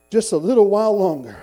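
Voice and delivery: loud, emphatic declaration of hope; preacher's declaration. Acted. Weary believer looking to his heavenly home, loud declaration. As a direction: proclaim it firmly, voice falling at the end.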